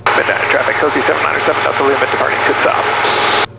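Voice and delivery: early-morning gravel on a radio call; gravelly pilot voice. Real, not acted. Pilot announcing departure to local traffic, gravelly morning voice. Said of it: "typical gravelly pilot voice like that".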